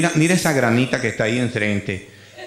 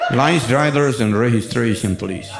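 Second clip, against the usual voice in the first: slower American cop repeating; American cop English; 4 semitones lower, slower than usual. Retold or imitated. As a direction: repeat it slowly to a confused driver. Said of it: "ahí empieza un inglés raro".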